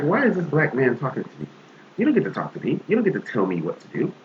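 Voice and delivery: indignant tone. Retold or imitated. Woman telling off a man in the park, indignant. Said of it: "she had this, this tone with him".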